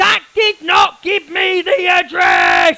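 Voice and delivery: very slow, high, drawn-out acted meltdown scream. Retelling how Easy came on screaming at her audience: imitating Easy screaming. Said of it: "that was my impression of Easy".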